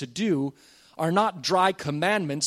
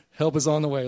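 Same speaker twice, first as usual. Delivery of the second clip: laughing. Real, not acted. Laughs through repeated line.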